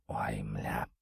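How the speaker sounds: low, soft groaning curse; weary sigh. A narrator's reading. Hero sighs in exasperation at the bull's fall. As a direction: sigh it out, fed up. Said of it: "вздохнул я".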